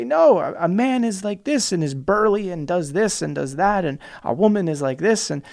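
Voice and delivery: mild hammed-up lecturing; mock insistent. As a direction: caricature a stubborn traditionalist, fading. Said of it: "fighting so aggressively hard to say".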